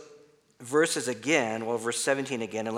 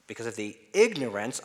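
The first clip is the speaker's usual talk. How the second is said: "ignorance" punched out; stress on ignorance. Shown as a demonstration. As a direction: hit the start of "ignorance" firmly. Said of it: "emphasize some other words".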